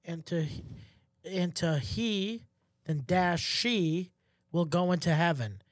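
slow and broken up, word by word; sounding out a printed form slowly; reading it out. Retold or imitated. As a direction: read HE, then SHE as separate options with long gaps. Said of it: "it, like, says".

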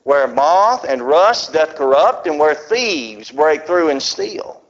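slow, solemn King James reading; measured scripture recital. Acted. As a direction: let each clause settle. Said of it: "he says".

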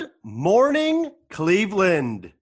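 high, slow mock English greeting; hammed-up English accent with an American twang. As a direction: stretch it out like a fake English radio host. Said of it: "trying to take the piss out of an English accent".

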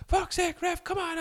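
high-pitched whining appeal to the ref; imitating an exasperated player; mock protest. Acts out players protesting to referee.

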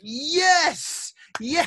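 high, loud triumphant yes; excited cheer. Retold or imitated. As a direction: celebrate like your team just scored. Cheering, retold relief.

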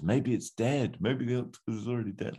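high-pitched crowd member's voice; man in the crowd. Acted. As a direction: pipe up from the crowd. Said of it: "one of the guys in the crowd".

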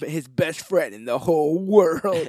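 hammed-up trailer narrator, drawn out; movie trailer voice. Trailer announcer voice continued.

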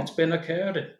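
lilting Welsh put-on; Welsh accent. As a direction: ask it with a Welsh lilt. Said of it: "I gotta get the fucking Welsh out".

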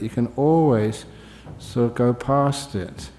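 slightly slowed, deliberate phrasing; measured, careful restatement; careful emphasis. Real, not acted. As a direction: place the words with care. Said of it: "I say this very carefully".

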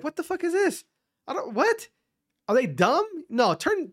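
high-pitched incredulous alien; baffled alien. Retold or imitated. Alien reacting to dumb talk on the airwaves, high-pitched and incredulous. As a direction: squeal in disbelief as an imagined alien. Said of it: "some alien probably went through and is like".

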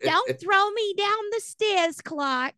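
put-on very high, slow old lady; quavering dotty aunt; Aunt Bethany. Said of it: "and go".

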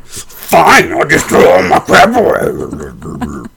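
huffy, slow and sarcastic; mock a sulky reply; snippy sarcastic. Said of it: "but you're like".

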